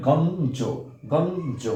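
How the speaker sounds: গঞ্জ with ঞ sounded as a dental n; demonstrated pronunciation. Shown as a demonstration. Teacher shows students how ঞ sounds, গঞ্জ said with a clear n. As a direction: say গঞ্জ carefully, a clear n before the final জ. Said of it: "এর উচ্চারণ হবে".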